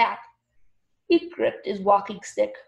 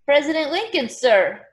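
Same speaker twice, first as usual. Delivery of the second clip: eager, raised answer; said loudly; 6 semitones higher, 6 dB louder than usual. A narrator's reading. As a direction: answer up loudly, pitched higher, then drop on "sir". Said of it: "Pascal said loudly".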